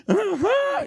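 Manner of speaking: put-on very high, loud little boy; high child's yes. Little boy telling mother it healed, very high. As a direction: squeak a cheeky yes.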